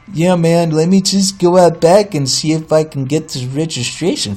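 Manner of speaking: clerk's voice. Retold or imitated. Clerk offering to check out back, lightly put-on voice. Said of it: "doing the voice".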